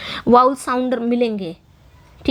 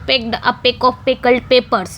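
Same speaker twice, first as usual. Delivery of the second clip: slow demo; much slower than usual. Shown as a demonstration. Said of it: "teacher demonstrating alliteration".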